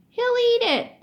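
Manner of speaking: loud, high insistence; insisting. Acted. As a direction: call it out, sure of it. Billy insists loudly to Alan.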